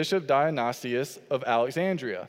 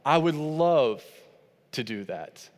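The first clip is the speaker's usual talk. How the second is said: slow, gladly offered; willing yes; slower than usual. Shown as a demonstration. Husband answering wife's request, slow and glad. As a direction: say it like you mean it gladly. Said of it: "This is how he says to respond".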